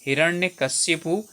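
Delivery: हिरण्यकशिपु said slowly, ending on a rise; careful correct form. Shown as a demonstration. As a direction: stress each syllable of हिरण्यकशिपु slowly. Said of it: "ये सही है".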